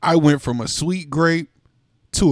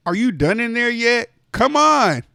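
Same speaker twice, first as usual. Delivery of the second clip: higher, louder, impatient holler; rising impatient shout; impatient call; 9 semitones higher, 4 dB louder than usual. Acted. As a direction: bang on the bathroom door with your voice. Impatient grape calling through door.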